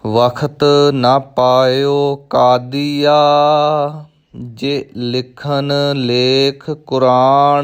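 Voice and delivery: slow, measured recitation with drawn-out syllables; scripture recitation. Shown as a demonstration. Teacher models a scripture line for learners, slow recitation. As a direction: recite each word slowly and evenly.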